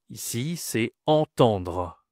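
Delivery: "entendre" said slowly with both nasal vowels clear; careful teacher model of "entendre"; slow model word. Shown as a demonstration. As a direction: stretch out "entendre", nasal an twice. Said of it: "C'est une nasale".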